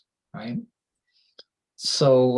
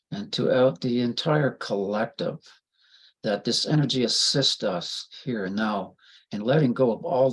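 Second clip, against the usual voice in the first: healing prayer. Acted. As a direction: call on the light with reverence.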